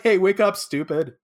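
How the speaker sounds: half-playful shout while shaking him; impatient yell. Retold or imitated. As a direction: bark at him to wake up. Shaking Eiji to wake him.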